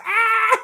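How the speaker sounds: high loud mock scream. Retelling how the hero finishes his scream, loud mock scream. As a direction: let out a hammed-up scream. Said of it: "he just finishes his scream".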